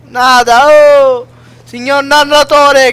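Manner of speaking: loud call to the narrator, slowing. Real, not acted. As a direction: call out loudly, drawn out. Calling out to the narrator.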